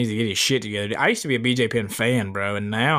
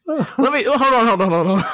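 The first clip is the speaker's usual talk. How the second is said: laughing while talking; 9 semitones higher, 5 dB louder than usual. Real, not acted. Laughing, trying to defend himself.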